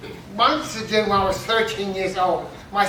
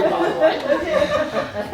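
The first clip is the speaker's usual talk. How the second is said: laughing drawn-out aside; 6 semitones higher, much slower than usual. Real, not acted. Laughing aside after punchline.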